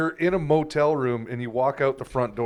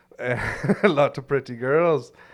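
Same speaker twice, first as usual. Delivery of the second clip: put-on Caribbean accent. Quoting Juice as he looks around, imitating Juice's Caribbean accent. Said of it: "he's got a very had a very awesome Caribbean accent".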